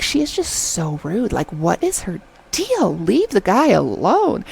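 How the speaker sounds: slow, emphatic exasperation with swooping pitch; indignant, stretched-out complaint; annoyed. Retold or imitated. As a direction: scold her in drawn-out words. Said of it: "really annoyed me".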